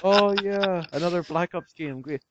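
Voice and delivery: high-pitched mock delight; sarcastic enthusiasm. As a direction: feign being thrilled, dripping with sarcasm. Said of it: "That's sarcasm".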